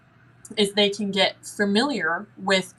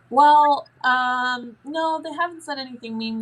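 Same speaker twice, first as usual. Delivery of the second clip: put-on higher kid voice, hesitant; imitated child, higher; 6 semitones higher, 4 dB louder than usual. Child telling the parent the spirit says nothing mean, high and hesitant. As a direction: play the kid thinking it over. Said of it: "And you're like".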